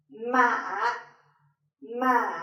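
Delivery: "ma" slowly dipping down, then lifting; low falling-rising tone. Shown as a demonstration. Teacher showing thanh hỏi, low falling and rising. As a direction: let "ma" sink slowly and come back up. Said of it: "slowly goes down and then raise".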